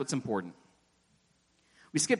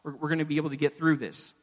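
softer, gentle reassurance to a weary servant; calm him down quietly, a touch quicker; reassuring God; 4 dB quieter, faster than usual. Acted. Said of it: "God's assuring Moses".

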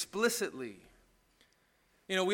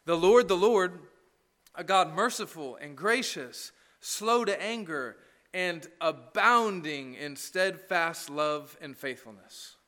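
solemn scripture reading; slower than usual. Retold or imitated. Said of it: "God describes himself to Moses like this".

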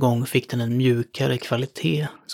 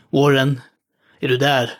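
raised call into the phone. Acted. Carter calls down the line to Warren, raised. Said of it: "ropade jag ner".

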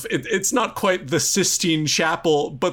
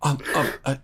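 nervous stammering; faster than usual. Acted.

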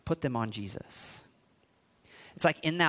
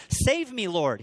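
high, loud cry for rescue; shouted plea; 7 semitones higher, 5 dB louder, slower than usual. A narrator's reading. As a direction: shout for help, stretching the last word. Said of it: "he shouted".

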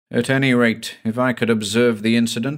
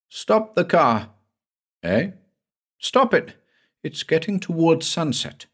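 frightened plea; 7 semitones higher than usual. Acted. Frightened passenger begging driver stop.

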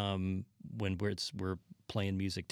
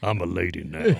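mock prissy lady; 3 semitones lower, 10 dB louder than usual. Posing as a lady.

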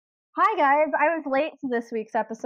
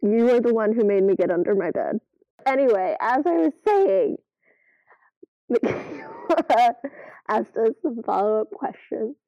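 thin headset-mic sound; like talking into headphone mic. Real, not acted. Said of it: "my sound was coming through my headphones microphone".

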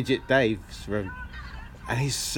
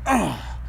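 imitated effort grunt; 3 semitones higher than usual. Grunts overheard from next room.

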